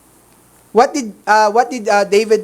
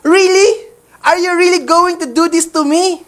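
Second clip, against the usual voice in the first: incredulous; 5 semitones higher than usual. Retold or imitated. Mephibosheth hearing David's promise, asking in disbelief. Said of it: "if you are Mephibosheth".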